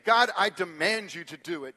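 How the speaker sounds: loud, insistent mock prayer; demonstrating a presumptuous prayer; presumptuous demand. Shown as a demonstration. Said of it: "balance between boldness and presumption".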